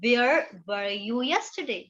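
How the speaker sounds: very slow, word by word; slow classroom model sentence; very slow example. Shown as a demonstration. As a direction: spell the question out slowly. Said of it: "जैसे मुझे बोलना है कल कहाँ थे".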